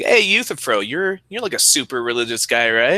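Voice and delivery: imitating Socrates. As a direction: greet Euthyphro in a put-on eager voice. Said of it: "he's like".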